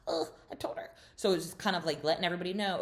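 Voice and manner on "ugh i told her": hushed, breathy gossip whisper, higher pitched; mock secretive whisper. Tamara whispers to the ladies before dinner, mock whisper. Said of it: "she's like".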